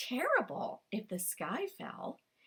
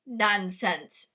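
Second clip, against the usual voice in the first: growled; 5 dB louder than usual. Acted. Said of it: "growled Tio Antonio".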